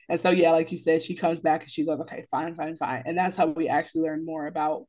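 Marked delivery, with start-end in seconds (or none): 2.0-3.0 reluctant giving in. Retold or imitated. Reluctantly gives in.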